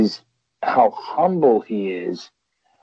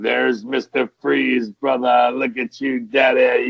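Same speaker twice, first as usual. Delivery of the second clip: hearty call that rises into a shout; imitating a wrestler greeting his pal with a shout. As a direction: hail a buddy across the room. Greeting his friend in the retelling.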